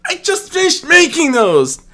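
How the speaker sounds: loud, high indignant retort; sniping back. Acted. Rodria retorting to Nymeria, a loud high indignant snipe. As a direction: snap back in outrage. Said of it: "Rodria sniped back".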